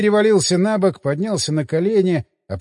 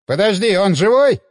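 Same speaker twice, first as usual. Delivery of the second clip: startled, louder question; taken aback; 3 semitones higher, 5 dB louder than usual. A narrator's reading. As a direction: caught off guard. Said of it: "опешил охранник химика".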